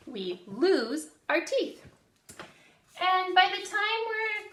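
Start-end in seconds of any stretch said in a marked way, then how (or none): 0.1-1.8 call and response. Shown as a demonstration. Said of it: "Say that with me".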